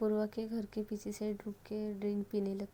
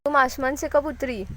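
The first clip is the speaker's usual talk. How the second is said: higher, nervous little stammer; 4 semitones higher, 10 dB louder than usual. Acted. Girlfriend stammers at drunk Sonal, higher and nervous. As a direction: stumble over the first words, scared. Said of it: "थोड़ा सा हकलाते हुए बोलती है".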